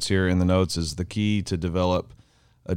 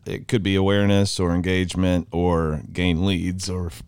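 voice cracking. Real, not acted. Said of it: "your voice cracked".

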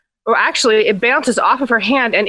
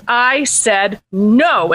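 slow, weighted refusal; firm refusal; much slower than usual. Acted. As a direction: draw out each word to put your foot down. Princess firmly refuses the frog.

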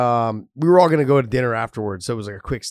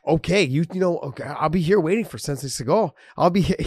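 eager fan; 4 semitones higher, faster than usual. Retold or imitated. DC eagerly waiting for Seagal.

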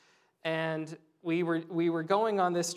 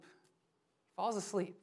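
softer, slow repeat of falls asleep; hushed, slow; 8 dB quieter, slower than usual. Shown as a demonstration. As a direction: let it settle quietly and slowly.

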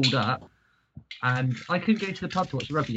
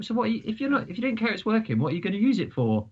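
retold disbelief; 8 semitones higher than usual. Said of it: "so I was like".

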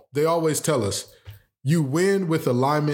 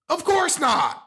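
sarcastic; 12 semitones higher, slower than usual. Real, not acted. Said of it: "Did you actually have to mean it?".

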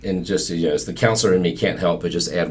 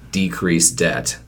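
decrease debt slow and softer; final slow repeat; 3 dB quieter, slower than usual. Shown as a demonstration. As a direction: say decrease debt slowly, one last time. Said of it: "I'll say it one final time".

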